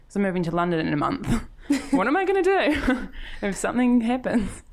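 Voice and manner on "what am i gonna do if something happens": high, nervous laughing question. Real, not acted. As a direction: laugh through mock worry. Worried about moving, laughing.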